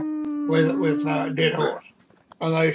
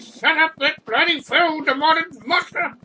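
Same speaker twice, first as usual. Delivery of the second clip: higher, louder mock yell of an angry farmer; farmer's yell; 9 semitones higher, 4 dB louder than usual. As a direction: bellow it like a fed-up farmer. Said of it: "was screaming something about".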